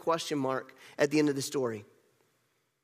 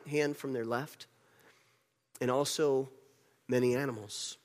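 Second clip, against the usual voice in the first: reading God's words. Shown as a demonstration. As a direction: read it out deliberately from the screen. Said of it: "I'll read it from the screen".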